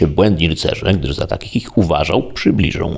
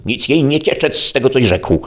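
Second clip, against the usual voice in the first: furious yell; 8 semitones higher than usual. A narrator's reading. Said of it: "wściekłym głosem".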